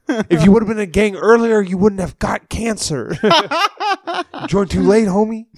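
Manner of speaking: high, laughing mockery, slowed; giggling through a mock gang pep talk. Host mocking the counselor while laughing.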